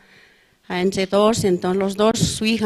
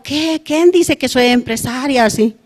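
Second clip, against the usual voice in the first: indignant complaint; 5 semitones higher than usual. Retold or imitated. Believer retelling her indignant inner reply to an invitation. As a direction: scoff at the idea of being called a businesswoman. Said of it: "¿De mí qué salía mi queja".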